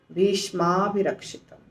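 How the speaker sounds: fuse भीष्म and अभिरक्षितम into भीष्माभिरक्षितम; joined sandhi form. Shown as a demonstration. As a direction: say भीष्माभिरक्षितम as one joined word. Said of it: "संधि करके नहीं बताएंगे". (भीष्माभिरक्षितम को जोड़कर एक शब्द में बोलें)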